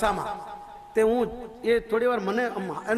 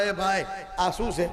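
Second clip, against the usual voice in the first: lower, slow questioning voice; a hint of a baffled officer asking; mild mock puzzlement, slowed down; puzzled official; 4 semitones lower than usual. Official questions him at airport.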